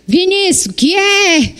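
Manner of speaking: mother mimics her sons' careless answer; mimicking sons. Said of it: "Aí eu falo assim".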